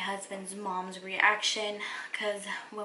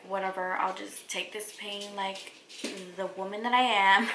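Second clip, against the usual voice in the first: mock tough bravado. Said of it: "I'm just kidding".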